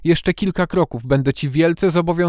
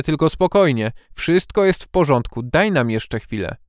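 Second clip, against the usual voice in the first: steady, reassuring, a bit strained; forced calm; 3 semitones higher than usual. Acted. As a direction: keep calm under pressure. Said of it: "starał się zachować spokój i pewność".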